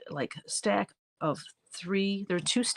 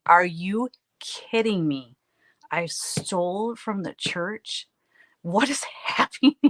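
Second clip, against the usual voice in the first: mock disbelief; 2 semitones higher, 5 dB louder, slower than usual. Discovering price tags, disbelief.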